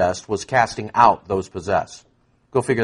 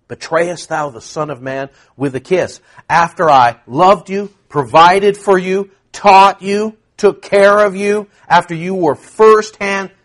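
louder, pleading rebuke building; a preacher's hurt Jesus; 5 semitones higher, 5 dB louder than usual. Acted. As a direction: voice Jesus wounded by betrayal. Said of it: "Jesus voiced rebuking Judas".

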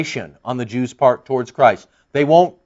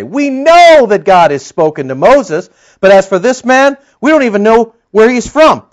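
scornful Jews; 6 semitones higher, 8 dB louder than usual. Retold or imitated. Jews rebuff Jesus' claim.

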